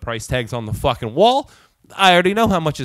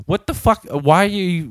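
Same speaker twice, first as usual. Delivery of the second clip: higher-pitched annoyed retort; kind of mad; 4 semitones higher, 3 dB louder than usual. Retold or imitated. Customer retelling his comeback to the chatty cashier, kind of mad. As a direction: challenge them, mildly angry. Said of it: "I actually was, like, kind of, like, mad".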